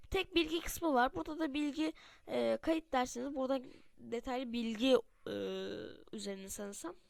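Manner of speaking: talking through a stuffy nose; nose blocked, a bit congested. Real, not acted. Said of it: "Arkadaşlar biraz böyle burnum, e, kapalı". (burnu tıkalı konuşma)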